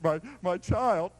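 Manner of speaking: put-on My, my child drawn out slow and gentle; tender father. Shown as a demonstration. Preacher voicing the father's true Greek tenderness, slow and tender. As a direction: linger on My, my child like a loving dad. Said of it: "You have to read through the Greek".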